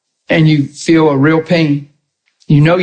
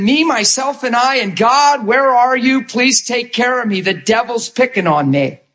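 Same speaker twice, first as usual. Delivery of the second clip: mock self-pity, pitched up; self-pitying plea; 4 semitones higher than usual. Preacher mimicking a self-centred believer praying, mock pleading. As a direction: plead higher, like a put-upon victim. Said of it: "That is you saying".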